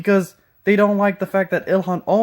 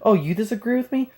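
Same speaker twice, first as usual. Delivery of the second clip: mocking whine; 5 semitones higher, faster than usual. Mocking refrain, imitating opponents.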